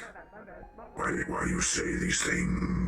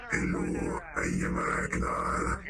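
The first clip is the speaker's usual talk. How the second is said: mocking imitation. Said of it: "You fucking sound like this".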